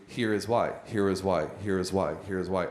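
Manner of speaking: the same flat fall on every Here is why; one chord over and over; same rhythm each time, fading; monotonous repetition. Shown as a demonstration. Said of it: "a musician playing one chord".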